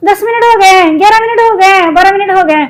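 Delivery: lightly voiced reminder from whoever is timing her; mock time warnings. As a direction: nag her with each passing minute. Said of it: "मुझे time बता बता के डराई जा रही है".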